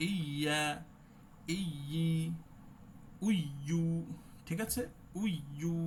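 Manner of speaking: উইয়ু with the pitch lifted on য়ু. Shown as a demonstration. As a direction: push the voice up on ইয়া. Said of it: "একটু উঠায় দিতে হবে".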